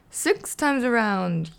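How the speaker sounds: mild mock yell; Count yelling. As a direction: call it out while spinning. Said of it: "yelled the Count".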